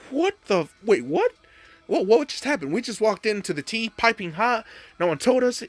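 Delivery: high-pitched mock bewilderment; baffled. Teammates walking in on shocking news, baffled. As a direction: blurt it out, confused and indignant.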